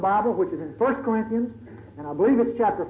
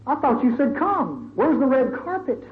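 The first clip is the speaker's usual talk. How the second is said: Paul complaining to God; 5 semitones higher than usual. Retold or imitated. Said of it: "picture old Paul in jail".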